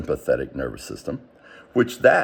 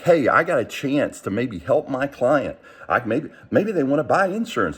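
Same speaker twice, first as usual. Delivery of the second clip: lightly voiced eager agent, higher and brighter in pitch; mock excitement; 5 semitones higher than usual. Agent imagining a good call, higher excited voice. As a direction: play the hopeful upbeat agent, a touch hammed-up. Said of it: "instead of being excited, like".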